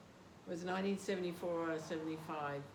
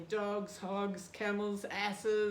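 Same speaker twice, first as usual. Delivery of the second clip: put-on loud, higher preaching in a heavy Yugoslavian accent; 3 semitones higher, 6 dB louder, much slower than usual. Yugoslavian devotee preaching at a cornered teenager, loud Yugoslavian accent. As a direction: bellow the list in a Yugoslavian accent. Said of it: "he had such a heavy accent".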